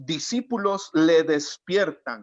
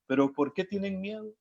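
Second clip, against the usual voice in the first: smiling, gentle question; 3 semitones higher than usual. Retold or imitated. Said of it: "me imagino a Jesús sonriendo y diciéndoles".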